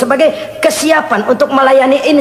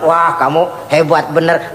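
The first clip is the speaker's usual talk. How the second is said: low, slow mock compliment; acted admiring praise; 6 semitones lower, slower than usual. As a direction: praise someone slowly in a lowered pitch. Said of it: "Orang kita puji".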